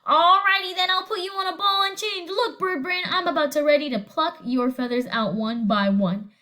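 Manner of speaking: a touch of a screeching parrot; lightly voiced bossy bird. Parrot threatening at the door, mild mock screech. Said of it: "the parrot screeched".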